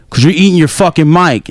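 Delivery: touch of mock outrage; mock annoyed gamer. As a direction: imitate an irritated player in the lobby. Retold lobby insult.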